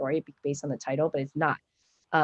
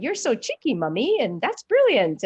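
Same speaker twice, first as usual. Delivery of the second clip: put-on British accent; 6 semitones higher, 4 dB louder than usual. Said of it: "character started speaking with a British accent".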